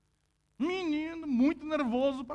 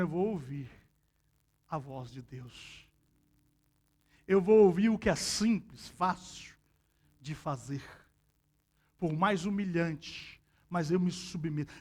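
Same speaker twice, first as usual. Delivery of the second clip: low, soft submissive vow; humbled quiet voice; 7 semitones lower, 5 dB quieter than usual. Retold or imitated. Naaman voiced by the preacher yielding to God, low and soft. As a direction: lower your voice in humble surrender.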